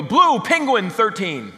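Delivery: slow, loud, deadpan nonsense; loud slow deadpan riddle; cryptic answer. Retold or imitated. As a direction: say it as if it makes total sense. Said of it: "That's like answering someone".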